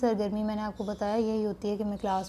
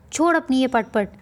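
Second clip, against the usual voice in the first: scolding wife; 3 semitones higher, 4 dB louder than usual. Acted. Wife scolds child offstage.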